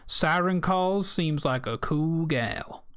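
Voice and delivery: slow Southern drawl; southern accent. Shown as a demonstration. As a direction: say it like a Southern local. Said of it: "I'll say it in a southern accent".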